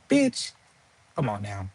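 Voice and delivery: incredulous bitch. Real, not acted. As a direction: jump way up in pitch, can't believe it. Calling out her lie.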